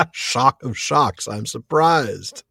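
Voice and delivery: mock surprise. Mock surprise at daughter's better Spanish.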